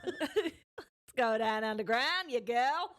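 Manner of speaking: laughing mock Aussie creep; Australian accent. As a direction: lure her in, Australian accent. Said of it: "in an Australian accent".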